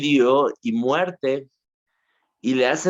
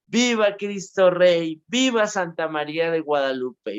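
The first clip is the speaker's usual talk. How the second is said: retold cry of faith; 6 semitones higher than usual. To his torturers, the boy martyr cries out in defiance, a raised retold shout. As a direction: call out viva Cristo Rey as the tortured boy did. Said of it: "él empezaba a gritar".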